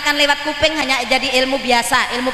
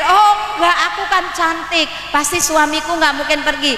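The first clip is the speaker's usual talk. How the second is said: higher, smug self-assured wife; mock vain wife; 4 semitones higher than usual. Pretty wife boasting her husband won't leave, mock smug. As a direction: preen a little, sure of your looks. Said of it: "jangan dipikir".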